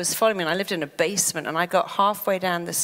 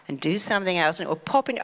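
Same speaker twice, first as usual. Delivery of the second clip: ordinary talk, nothing marked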